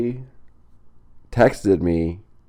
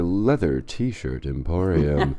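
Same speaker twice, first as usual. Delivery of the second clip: mock ad read; 3 semitones lower, slower than usual.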